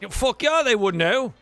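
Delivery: lightly voiced, insistent sailor; ship hand defending his crew. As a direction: stand up for your mates like a crewman.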